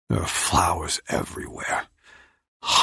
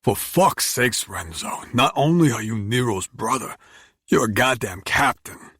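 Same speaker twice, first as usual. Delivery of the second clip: raised, exasperated confrontation; angry snap; 4 semitones higher, 3 dB louder than usual. Acted. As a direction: bark it at him in frustration. Dario angrily confronting narrator.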